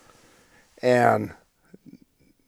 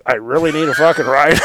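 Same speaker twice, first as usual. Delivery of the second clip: calling out; 3 semitones higher, 5 dB louder than usual. Retold or imitated. Calling to band.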